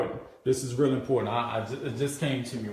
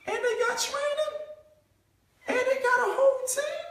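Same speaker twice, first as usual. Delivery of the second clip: excited prospect. Retold or imitated. Excited prospect discovering perks.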